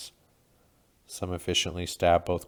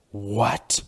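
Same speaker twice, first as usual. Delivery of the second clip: scream; 3 semitones higher, 6 dB louder than usual. A narrator's reading. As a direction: shout it in shock. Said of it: "Malkov screams".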